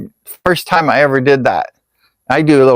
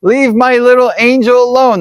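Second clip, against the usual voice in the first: mock parent yelling; 9 semitones higher than usual. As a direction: shriek it at a kid through the glass. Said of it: "they were yelling".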